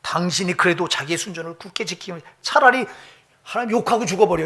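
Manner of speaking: wife's bitter taunt, rising on the last words; lightly voiced scolding wife; mocking wife. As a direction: sneer it out like a scornful wife. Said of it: "그게 아니라".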